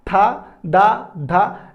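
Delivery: "था, दा, धा" drawn out very slowly, tongue on teeth; sounding out letters. Shown as a demonstration. Teacher modelling the dental sounds slowly for students, careful and stretched. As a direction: stretch "था" "दा" "धा" slowly, each clearly apart. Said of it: "अगर हम इसका उच्चारण करें तो ता".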